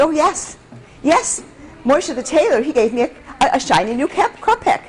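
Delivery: put-on a touch of a nervous child; eager boy. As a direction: blurt it out like a proud little boy. Boy answering mother eagerly.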